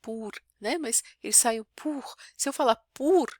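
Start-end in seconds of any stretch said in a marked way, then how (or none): 0.0-0.3 "Pour" with little air, Brazilian p; flat unaspirated p; Brazilianized version; Portuguese-style pour. Shown as a demonstration. 2.9-3.3 "pour" said with less air; plain Portuguese p; weak-breath version; unaspirated pour. Shown as a demonstration. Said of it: "ele solta menos ar do que o pour".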